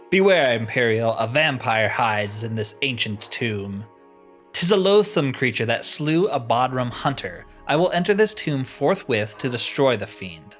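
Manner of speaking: declaimed heroic warning, opening loud; theatrical noble vampire hunter; valiant knight. Acted. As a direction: proclaim it like a storybook knight. Voices vampire-hunting knight.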